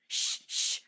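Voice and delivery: whispered shushing; hushing. A narrator's reading. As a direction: hush your sister quickly. Brother hushing sister.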